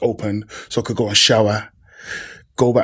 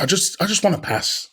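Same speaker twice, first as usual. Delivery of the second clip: higher-pitched retold insistence; lightly pleading, pitched up; imitated plea; 5 semitones higher, 3 dB louder than usual. Retells pleading only to pass.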